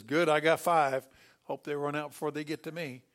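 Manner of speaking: loud, relieved prisoner's cry; relieved exclaim. Retold or imitated. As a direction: blurt out with relief.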